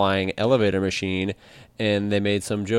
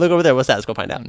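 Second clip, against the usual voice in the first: excited discovery voice; 3 semitones higher, faster than usual. Pretend. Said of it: "I'm like".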